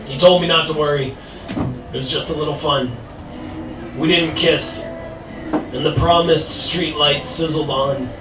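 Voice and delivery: slow, measured spoken-word poem; poetry recitation. Acted. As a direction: recite it line by line, with pauses. Recites own poem on stage.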